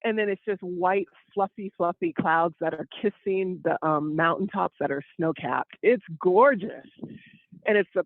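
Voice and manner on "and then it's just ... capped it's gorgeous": slow scenic description. Acted. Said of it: "let me describe it for the people".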